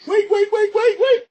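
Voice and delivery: high, loud panicked wait calls; yelling after a runaway vehicle in mock panic; frantic calling. Cartoon hero shouting after his runaway vehicle. Retelling frantic chase scene.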